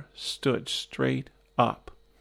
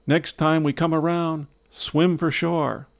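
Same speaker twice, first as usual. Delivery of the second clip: mildly raised, higher call back; shouted reply; 4 semitones higher than usual. Retold or imitated. Friend answering from the whirlpool, a mildly shouted reply. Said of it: "He shouted back".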